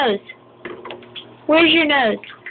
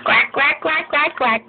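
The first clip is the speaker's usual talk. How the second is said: playful quacking; duck quack; 3 semitones higher than usual. Shown as a demonstration. Parent teaching baby the duck sound, playful quack. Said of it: "What's a ducky say?".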